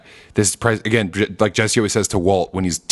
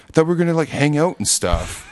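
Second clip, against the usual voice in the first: whiny Badger; 6 semitones higher than usual.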